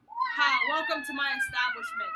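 loud, high, slow mock villain voice; gruff bot voice. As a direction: growl it like a swamp ogre. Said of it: "the bot's going".

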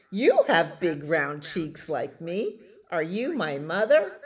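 put-on loud, hopeful baby bird; crying out. A narrator's reading. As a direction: ask loudly with a rising, hopeful end. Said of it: "he cried".

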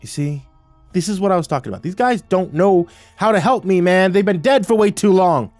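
high, loud groaning complaint; whining protest, pushed high; exasperated groan. A narrator's reading. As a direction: groan it out, rising in pitch and volume. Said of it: "turned to Falling Sky and groaned".

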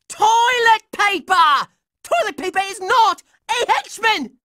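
cartoon indignant rant; exasperated outburst. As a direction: hammer each word in exasperation. Exasperation escalates.

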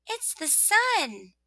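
high, slow sun voice; cheery little voice. Acted. Sun announcing itself to rosebud, cheery. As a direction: sing it out high and drawn out. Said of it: "said the cheery little voice".

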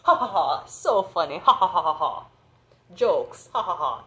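sarcastic imitation of mocking laughter. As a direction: mimic people laughing at you. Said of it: "They might laugh".

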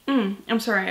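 talking through a yawn. Real, not acted. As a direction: say it mid-yawn. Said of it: "I'm yawning".

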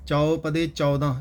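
ਚੌਪਦੇ ਚੌਦਾਂ read together, the number ਚੌਦਾਂ spoken out; pronunciation demo. Shown as a demonstration. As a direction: sound out ਚੌਦਾਂ right after ਚੌਪਦੇ. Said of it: "ਇਸ ਤਰ੍ਹਾਂ ਉਚਾਰਨ ਕਰਨਾ ਹੈ". (ਚੌਪਦੇ ਦੇ ਨਾਲ ਚੌਦਾਂ ਦਾ ਉਚਾਰਨ)

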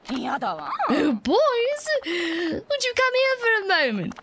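mother calls her sons to come over, sugary and drawn out; calling out. Acted. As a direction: call the sons in sweetly and slowly. Fortune teller calls out her sons.

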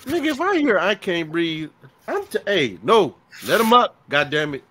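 loud, high, urgent order to let him up; pretend cop yelling. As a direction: shout it like a panicked cop. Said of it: "if I'm a cop".

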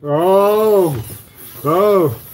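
cheering the car on; excited oh. Real, not acted. Car stunt attempt.

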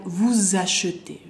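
"Vous achetez" linked with a z; liaison before vowel. Shown as a demonstration. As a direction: say "Vous achetez" as vou-zachetez. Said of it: "S seguido de vocal". ("Vous achetez" con la S enlazada como z)

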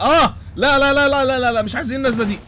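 high, loud panicked cries of no. Real, not acted. Gamer crying out as his car nosedives. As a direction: beg the car not to land like that. Car crashing nose-first.

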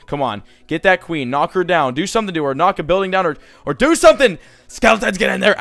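building, urging the queen on; a gamer egging on his skeletons; urging troops on. Real, not acted.

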